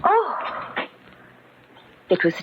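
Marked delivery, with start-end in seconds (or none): 0.0-0.4 high, uneasy call into the kitchen; nervous calling out. Acted. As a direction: call out, unsure who's there.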